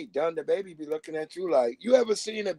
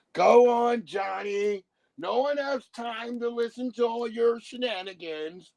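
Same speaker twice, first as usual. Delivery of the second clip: higher, prim stagey grown-up voice; dismissive movie adult; 7 semitones higher than usual. Pretend. Movie adult dismissing a truthful kid, prim and stagey. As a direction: brush the kid off like a stuffy film parent.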